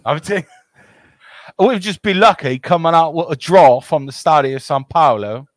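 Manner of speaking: put-on English accent; Henry Bell. Host being the non-Scouse guy, English accent. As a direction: play the non-Scouse British pundit. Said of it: "more British and more English".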